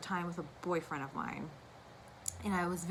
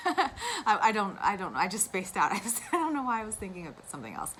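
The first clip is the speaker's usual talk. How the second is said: laughing at herself; 2 semitones higher, 5 dB louder than usual. Real, not acted. Laughs at spacing out.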